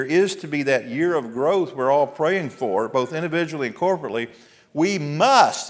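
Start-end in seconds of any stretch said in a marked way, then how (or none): 4.7-5.7 we punched loud and high; we, said louder and higher as a rallying call; stress on we. Real, not acted. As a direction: hit the word we hard. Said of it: "and I emphasize the word "we".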